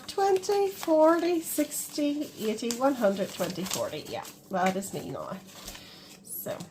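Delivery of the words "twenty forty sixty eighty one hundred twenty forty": laughing recount. Real, not acted. Recounts laughing after her mistake.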